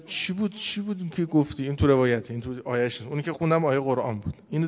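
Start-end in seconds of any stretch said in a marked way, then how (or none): 0.0-1.6 higher, lightly amused asking voice; smiling question. Retold or imitated. Solomon questioning the little ant, smiling. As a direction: ask with a gentle smile in the voice. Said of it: "اینجا لبخندی هم زد".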